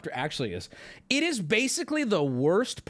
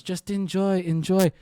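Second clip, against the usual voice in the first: clumsily imitated Icelandic-accented pilot; bad Icelandic accent; 5 dB louder, slower than usual. Icelandic pilot telling passengers to enjoy, badly faked accent. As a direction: push out a botched Icelandic accent, firmly. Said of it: "I can't do an Icelandic accent".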